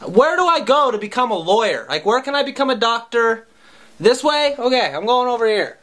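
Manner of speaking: lightly hammed-up kid; mock eager kid. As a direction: rush off like a kid picking a job. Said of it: "I probably would've been like".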